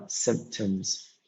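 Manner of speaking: symptoms said slowly, stressed on "symp"; slow "symptoms", first syllable stressed. Shown as a demonstration. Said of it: "the stress in the first one".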